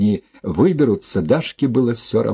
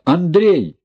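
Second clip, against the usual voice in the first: high, loud call across the yard; 9 semitones higher, 3 dB louder than usual. A narrator's reading. Marianna on the motorcycle calling Andrei back, loud call. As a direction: shout his name to stop him. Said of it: "крикнула".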